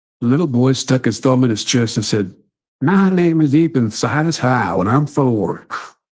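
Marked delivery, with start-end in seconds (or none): 2.8-5.7 put-on slow, drawn-out elderly woman's voice. Reading a story aloud, voicing a four-year-old boy, in an old-lady voice. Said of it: "why did that little kid sound like an old lady".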